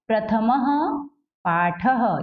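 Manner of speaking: प्रथमः पाठः with each ः sounded as a clear "ha"; visarga as "ha". Shown as a demonstration. Teacher showing pupils how to read the heading, visarga sounded as "ha". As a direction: end प्रथमः and पाठः on an echoed "ha". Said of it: "ह होगा।".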